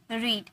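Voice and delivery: रीड with a long ee; pronunciation model. Shown as a demonstration. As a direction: model रीड as a lone word for learners. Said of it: "इसे हम कहेंगे". (रीड में लंबी ई का उच्चारण)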